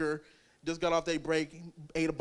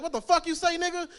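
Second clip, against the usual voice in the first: woman's angry retort; 11 semitones higher, 5 dB louder, faster than usual. Retold or imitated. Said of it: "She's like".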